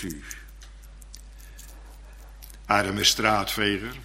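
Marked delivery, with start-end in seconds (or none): none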